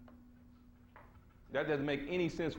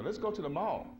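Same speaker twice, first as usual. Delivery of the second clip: high, swooping mimicry of an excuse; mock dodging; 6 semitones higher than usual. Sister avoiding a consciousness lesson, mock dodging. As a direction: mimic a breezy excuse, pitched up.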